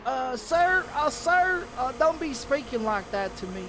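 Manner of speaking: high mocking protest; high, hesitant mock complaint; imitated offended call-taker.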